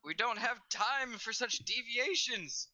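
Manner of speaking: stern character voice. Acted.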